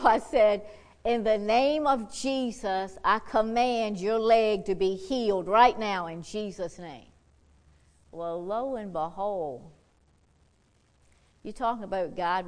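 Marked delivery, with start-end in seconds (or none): 1.0-7.1 loud, slow healing command; commanding prayer. Retold or imitated. Preacher re-enacting his command to heal the leg. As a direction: command it with authority.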